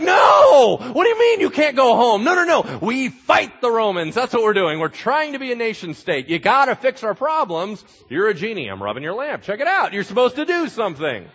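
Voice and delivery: shouted, very high and loud protest; outraged crowd. Acted. Crowd shouting at Jesus walking away: outraged yell. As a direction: yell at him not to leave.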